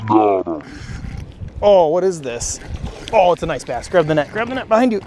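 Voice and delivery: excited calls while landing a bass; urgent, thrilled, calling for the net; fighting a fish. Real, not acted.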